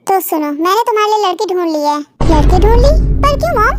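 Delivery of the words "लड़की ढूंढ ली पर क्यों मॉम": surprised. Acted. Son shocked by bride news.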